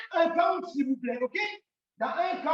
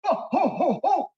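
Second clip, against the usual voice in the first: a hint of Santa's booming oh oh; mock Father Christmas laugh, not a kiai; lightly voiced Father Christmas; 5 dB louder than usual. Shown as a demonstration. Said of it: "Ça, c'est le Père Noël".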